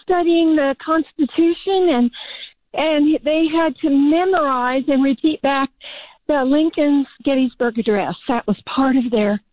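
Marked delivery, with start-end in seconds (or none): 2.7-9.4 breathing hard between phrases; huffing and puffing from outdoor work. Real, not acted. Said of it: "I'm huffing and puffing 'cause I'm working outside".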